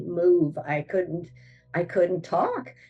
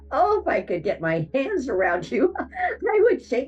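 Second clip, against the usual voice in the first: much higher, laughing in exasperation; exasperated laugh; 9 semitones higher, 3 dB louder than usual. Retold or imitated. At family who revived her, high exasperated laughing. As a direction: laugh out your frustration, louder. Frustrated at being brought back.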